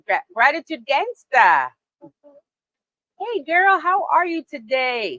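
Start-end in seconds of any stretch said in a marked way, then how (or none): 3.2-5.2 high, bright hello; excited greeting. Real, not acted. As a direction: call out happily to a friend. Host greets arriving guest.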